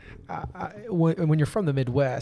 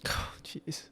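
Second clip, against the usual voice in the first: breathy whisper; 14 dB quieter than usual. Real, not acted. Reacting to pineapple question.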